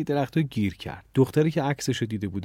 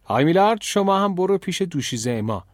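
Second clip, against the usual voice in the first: higher call, loudest on the name; raised voice; 7 semitones higher, 4 dB louder than usual. A narrator's reading. Headmistress sending Millard off after Emma, raised voice. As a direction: call out firmly to someone out of sight. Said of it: "صداشو بلند کرد و گفت".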